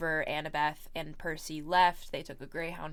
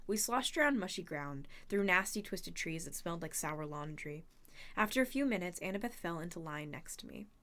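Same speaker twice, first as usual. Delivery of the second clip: quieter read-aloud storytelling; story narration; 3 dB quieter than usual. A narrator's reading. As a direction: narrate the tale to listeners. Reads the novel aloud.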